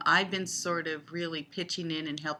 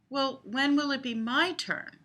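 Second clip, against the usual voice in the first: mock pleading; 9 semitones higher, 5 dB louder than usual. Pleading in the pretend game.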